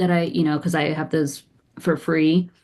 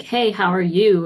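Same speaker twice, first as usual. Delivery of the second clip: slower, drawn-out hello that invites an answer; inviting greeting; 2 semitones higher than usual. Retold or imitated. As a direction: lightly act out an open, chatty greeting. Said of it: "and encouraging a response".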